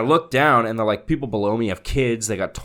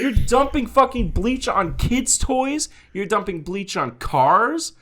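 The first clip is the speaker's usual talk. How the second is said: retold scolding; 12 semitones higher, 3 dB louder than usual. Narrator berating neighbor over kids' toys. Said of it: "I was like".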